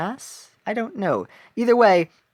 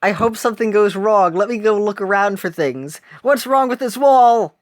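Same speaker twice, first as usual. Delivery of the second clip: excited detective; 4 semitones higher, 6 dB louder than usual. Retold or imitated. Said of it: "she's just like".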